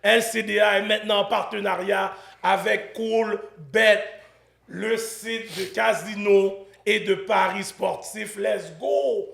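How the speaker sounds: measured announcer delivery with pauses between phrases; sponsor ad read. Acted. Host reading a betting site promo to viewers, ad-read style. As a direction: sell the sponsor, punching each key phrase.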